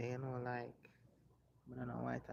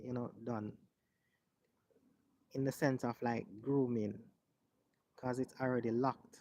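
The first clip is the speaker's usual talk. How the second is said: louder, projected explainer voice; presenting to viewers; 8 dB louder than usual. Real, not acted. Host showing viewers how locks are groomed, louder presenter delivery. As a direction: explain it clearly to the camera, voice up.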